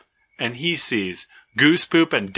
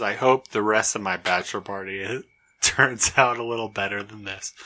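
dry retold Gavin; 3 semitones lower, 3 dB quieter than usual. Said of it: "he says".

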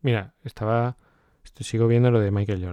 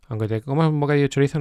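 higher, louder, fast and gleeful; excited reassurance; 5 semitones higher, 5 dB louder, faster than usual. Retold or imitated. Telling himself junk food is fine, fast excited. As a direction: rattle it off excited.

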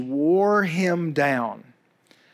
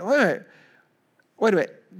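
ordinary talk

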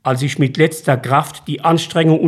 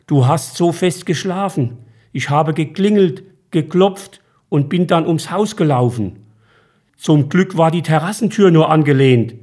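a hint of the grown son, slightly higher; son's voice, a little raised; lightly voiced son; 3 semitones higher than usual. Son tells his dazed father how he got in: lightly voiced.

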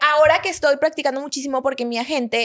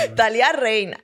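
"Natalia Reina" said through a laugh; amused at her own joke, laughing out "Natalia Reina"; laughing repeat. Real, not acted. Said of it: "Me encanta".

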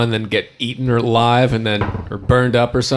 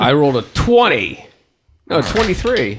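excited, higher-pitched blurt of a dice roll; 4 semitones higher than usual. Real, not acted. Player blurting a roll to the game master, excited. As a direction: blurt the number out eagerly. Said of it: "he's a very excitable boy".

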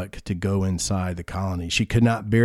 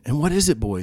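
joking butcher; 5 semitones higher than usual. Acted. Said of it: "the butcher jokingly asks".

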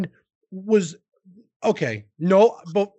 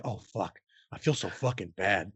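low, much softer, deflated regret; retold guilt; 8 semitones lower, 9 dB quieter than usual. Streamer recalling guilt over his viewer's last bits, retold remorse. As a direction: sink into quiet remorse, retold. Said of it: "I felt literally for the rest".

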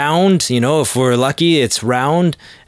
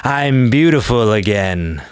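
slow, self-admiring relief; mock satisfied sigh; 3 semitones lower, slower than usual. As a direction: savor the wig like a vain diva. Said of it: "He's like".

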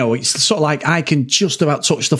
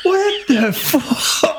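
retold shocked panic; 12 semitones higher, much slower than usual. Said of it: "And then I was like".

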